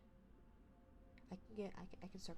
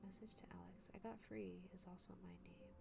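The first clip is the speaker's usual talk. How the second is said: soft breathy whisper; 6 dB quieter than usual. Shown as a demonstration. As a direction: whisper the message. Repeat of the message, whispered.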